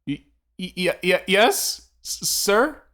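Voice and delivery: high, slow stammer of fear; a high frightened stammer; stammering terror. Acted. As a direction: stutter each sound, terrified. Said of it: "stands up on the stool".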